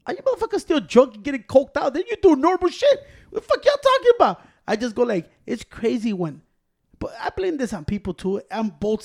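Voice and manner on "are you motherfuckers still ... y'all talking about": much higher, louder rant breaking into laughter; laughing disbelief, louder and higher. Retold or imitated. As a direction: cackle through the rant. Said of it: "I'm like this".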